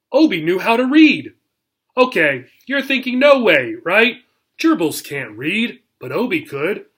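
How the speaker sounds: lively storybook read-aloud for a class; reading to children. A narrator's reading. Teacher reading the chapter aloud to her class, lively storytelling. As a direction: tell it like a bedtime chapter for kids.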